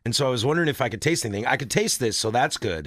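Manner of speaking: numb lips, half the mouth frozen; numb from the dentist. Real, not acted. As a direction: speak through a numb mouth. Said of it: "I can't close the, my lips on the right side".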